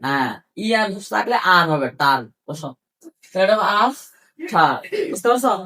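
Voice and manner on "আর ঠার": "আর" and "ঠার" as two separate syllables; teacher splitting the word into "আর", "ঠার"; broken into syllables. Shown as a demonstration. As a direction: pause between "আর" and "ঠার". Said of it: "syllable গুলো ভাঙে ভাঙে উচ্চারণ করতে হবে".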